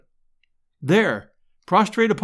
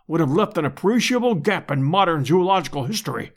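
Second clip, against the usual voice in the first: lightly voiced orator, emphatic stresses; a touch of grand, ceremonious professor; pompous professor, grandly grateful. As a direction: deliver thanks like a formal address.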